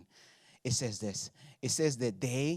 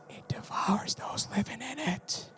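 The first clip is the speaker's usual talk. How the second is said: hushed, voiceless storyteller whisper; scary whisper; 6 semitones higher, slower than usual. Acted. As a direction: lean in and spook them. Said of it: "It's scary".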